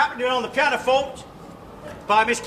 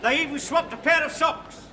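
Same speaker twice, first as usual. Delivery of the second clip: grand tragic wailing. Acted. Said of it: "a little dramatic monologue".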